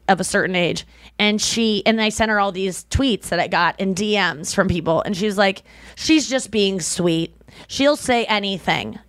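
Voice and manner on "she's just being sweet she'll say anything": mom impression. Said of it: "I'll do my mom's impression".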